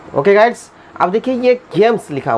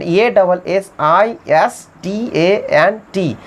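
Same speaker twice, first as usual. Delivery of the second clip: slow spelled-out letters; careful letter dictation; spelling out; much slower than usual. Shown as a demonstration. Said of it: "spelling".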